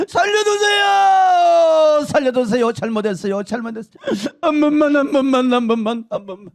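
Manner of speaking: loud, high desperate crying plea; tormented woman pleading; begging for mercy. Retold or imitated. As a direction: scream for your life, fading.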